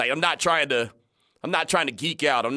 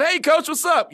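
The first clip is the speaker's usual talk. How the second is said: higher, louder, beaming hello; smiling greeting; 6 dB louder than usual. Retold or imitated. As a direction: greet the coach with a big grin. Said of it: "I got a big smile on my face".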